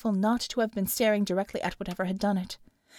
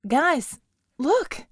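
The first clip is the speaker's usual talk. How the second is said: calling out excitedly; 6 semitones higher, 4 dB louder than usual. A narrator's reading. Calling out to others.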